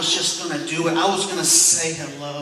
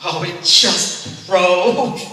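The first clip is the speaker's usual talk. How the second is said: panicked yelp; 3 semitones higher, 8 dB louder, slower than usual. Retold or imitated. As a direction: yelp in mock panic as her water breaks. Panicked husband, water broke.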